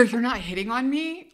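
mildly shocked rising question; light mock horror; horrified. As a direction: ask it a little horrified. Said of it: "Like, horrified".

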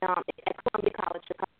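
breaking up on a bad phone line; crackly cordless phone. Real, not acted. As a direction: voice cutting in and out. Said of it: "fading in and out".

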